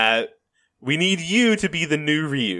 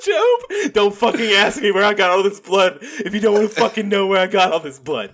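unhinged Job; 4 semitones higher than usual. Retold or imitated. Job voiced, blood scene.

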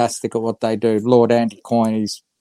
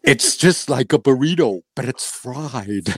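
laughing. Acted. Guest's joke voice, laughing.

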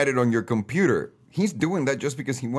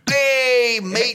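high, loud mock Australian-Italian accent; Hugh Jackman; 10 semitones higher, 4 dB louder than usual. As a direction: stretch out a hammed-up Australian-Italian greeting. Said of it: "can you imagine if Hugh Jackman really said that?".

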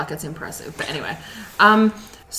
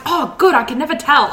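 laughing quote; 8 semitones higher, 4 dB louder than usual. Retold or imitated. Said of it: "and she's like".

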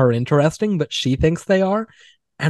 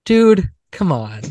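pitying; 4 semitones higher, slower than usual. Retold or imitated. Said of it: "with the pity of, like".

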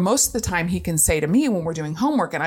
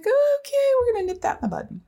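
determined take-charge. Retold or imitated. Mom deciding to stop it.

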